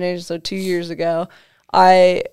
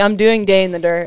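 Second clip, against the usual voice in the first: louder, firm "doing", no room for a no; insistent; 4 dB louder than usual. Shown as a demonstration. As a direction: put your foot down on "I'm doing Day in the Dirt". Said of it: "I wasn't really, like, asking him".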